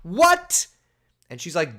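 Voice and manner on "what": incredulous high yelps, rising, louder; escalating shocked what; baffled repeated what. Retold or imitated. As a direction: squeak out each what in disbelief. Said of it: "And I'm like".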